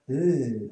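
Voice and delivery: "l" held slowly, with no u colour; clear L. Shown as a demonstration. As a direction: hold a clear "l". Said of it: "Not u".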